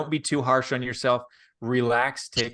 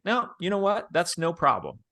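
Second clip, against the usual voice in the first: easygoing reassurance; 5 semitones higher than usual. Shown as a demonstration. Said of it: "All you have to do is say".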